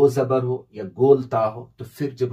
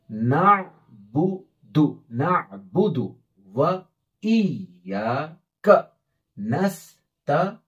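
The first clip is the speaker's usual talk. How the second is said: very slow, drawn-out Quranic reading; slow recitation; much slower than usual. Shown as a demonstration. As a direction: stretch each word for the learner. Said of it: "और फिर मिला के पढ़ेंगे". (धीमी तिलावत)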